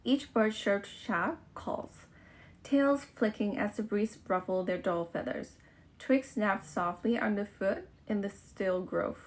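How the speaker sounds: careful read-aloud of a test passage. Shown as a demonstration. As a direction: read each sentence out clearly for the test. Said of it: "that I have to read out loud". (อ่านออกเสียงอย่างตั้งใจ)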